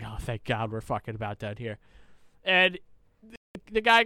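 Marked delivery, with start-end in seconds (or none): 0.0-1.8 a muttered aside, relieved it's done. Retold or imitated. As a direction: lower and softer, a relieved mutter. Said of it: "I'm just like".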